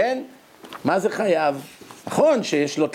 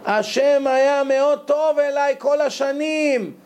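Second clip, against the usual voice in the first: slow and savoring, rising on the Hebrew; drawn-out quote of the addict; 8 semitones higher, slower than usual. Retold or imitated. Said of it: "אומר לי".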